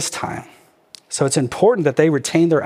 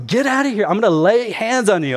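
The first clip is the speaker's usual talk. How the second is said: raised, high mock-angry threat; hammed-up rage, higher pitch; Hulk; 6 semitones higher than usual. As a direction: play at blowing up like the Hulk. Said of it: "So he goes Hulk again".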